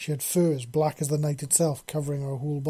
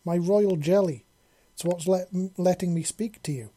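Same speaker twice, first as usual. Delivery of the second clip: queen voice; 5 semitones higher, 7 dB louder than usual. A narrator's reading. Queen explains, voiced figure.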